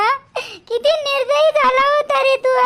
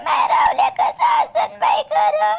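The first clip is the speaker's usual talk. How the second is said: repeated wail. Acted. Mother repeating her lament.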